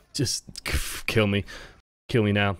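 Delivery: low, defeated monotone; Lampy's monotone. Retold or imitated. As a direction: sound like you've already given up. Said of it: "it's Lampy that's doing this in the monotone voice and already given up".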